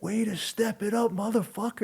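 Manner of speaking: high-pitched elated congratulation, imitated; happy cheering. Fighter retelling how his beaten-up opponent congratulated him, happy cheering. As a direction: crow it like a thrilled opponent. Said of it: "happy that I fought him".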